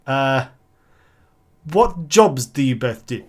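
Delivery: odd New Zealand-South African hybrid; mixed New Zealand-South African accent. Acted. Adviser questioning mortgage couple, mixed New Zealand-South African accent. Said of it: "a mix of New Zealand and South African".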